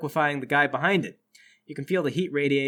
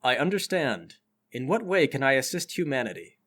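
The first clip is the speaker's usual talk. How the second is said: solemn nano man; 4 semitones lower than usual. Acted.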